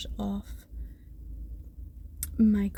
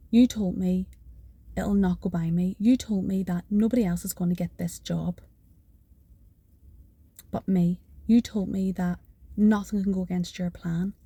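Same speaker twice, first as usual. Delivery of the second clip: insistent prayer; 4 dB louder than usual. Retold or imitated. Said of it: "I'm like".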